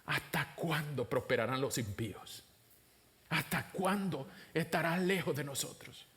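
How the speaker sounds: soft, pleading lament to God; prayer of lament. Acted. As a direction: plead gently, like a weary prophet praying. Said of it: "lamentos y quejas".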